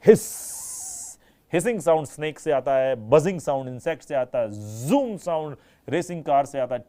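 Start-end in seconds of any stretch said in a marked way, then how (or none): 0.1-1.2 हिस hissed without voice, slow and stretched; snake hiss. Shown as a demonstration. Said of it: "sound कौन सा आ रहा है". (साँप की तरह फुफकारती हिस)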